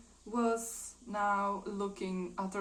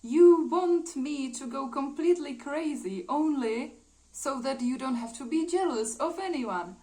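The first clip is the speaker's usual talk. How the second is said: loud, higher, acted tirade; really angry; 4 semitones higher, 8 dB louder than usual. Eva throwing things at him, really angry. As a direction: hurl the accusation with raised voice. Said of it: "is really angry".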